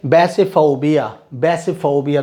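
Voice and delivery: teacher sounding out बैसिफोबिया for students to copy; model pronunciation. Shown as a demonstration. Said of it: "तो बैसिफोबिया इनमें से कौन सा word है".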